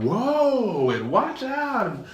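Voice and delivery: very high mock warnings; staff shouting warnings. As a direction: clear the way, hamming it up. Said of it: "all of us are like".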